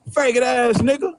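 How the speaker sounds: mild mock of an angry player; imitating Rose. Player cursing at a missed foul call, lightly imitated. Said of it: "when he said it".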